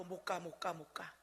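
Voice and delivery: put-on low, soft little-child plea; a hint of a toddler begging her to stay; toddler pleading. Granddaughter blocking the door so grandma stays, soft plea.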